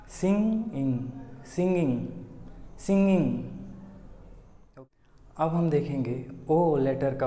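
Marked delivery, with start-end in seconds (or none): 0.1-3.4 सिंगिंग said again and again, nasal ng; repeated correct ng. Shown as a demonstration. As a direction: drill सिंगिंग. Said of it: "इसका सही उच्चारण ऐसे होगा".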